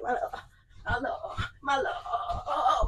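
words breaking into laughter; laughing, can't finish. Real, not acted. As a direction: giggle through it.

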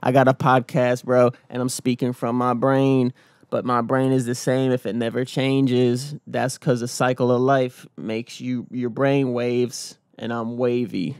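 slow, drawn-out mock rapper musing; lightly voiced rapper, slow and dreamy. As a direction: drag every word out like a dreamy rapper parody. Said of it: "'cause he talks like this".

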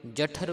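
ਜਠਰ with some weight on its consonants; slightly heavy pronunciation. Shown as a demonstration. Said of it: "ਪਾਠ ਥੋੜ੍ਹਾ ਭਾਰਾ ਹੈ".

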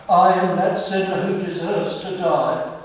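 loud, pleading confession of guilt; anguished confession. Retold or imitated. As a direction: cry out I am that sinner. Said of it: "we come into his presence and we say".

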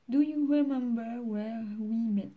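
slow English with a French accent; halting, stretched English, French accent. Real, not acted. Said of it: "ne jugez pas mon accent anglais".

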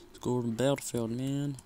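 fast, brash American accent on "battlefield". Shown as a demonstration. Gamer shows off his American accent. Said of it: "It's like my American accent".

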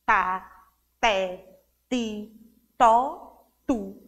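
"Tá, té, ti, tó, tu" one by one, tongue held at the teeth; língua entre os dentes. Shown as a demonstration. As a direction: catch the tongue between the teeth for each T. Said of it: "Meio que prendemos a língua". (sílabas com T, língua presa nos dentes)

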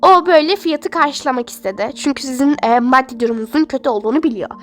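steady and patient, hushing the patient; lightly voiced nurse. Nurse explains who paid.

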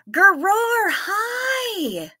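high, excited hello; light up and squeal a welcome; delighted high hello to a friend; excited greeting. Real, not acted. Greeting arriving viewer excitedly.

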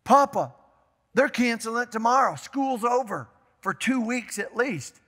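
put-on a kid breathless with big news; urgent grandson. Grandson phoning grandpa again, urgent and excited. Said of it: "Hung up".

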